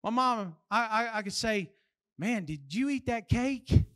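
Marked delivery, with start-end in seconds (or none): 2.2-3.7 understated excited question, rising at the end; mild excitement. Shown as a demonstration. Kid excited with his sister, mildly amazed question. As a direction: ask it with lightly impressed wonder. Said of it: "I get excited with my sister".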